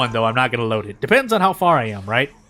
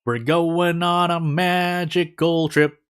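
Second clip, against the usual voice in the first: slow playful narrator; much slower than usual. Pretend. Playful narration of underwater trip.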